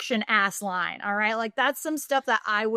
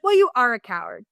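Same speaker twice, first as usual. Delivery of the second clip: mock scolding; 6 dB louder than usual. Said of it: "pops the fuck off on him".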